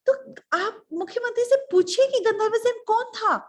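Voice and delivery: high, loud shrieked question; demanding queen. Acted. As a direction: interrogate the king in disbelief. Queen orders king to ask. (चीखकर पूछती रानी)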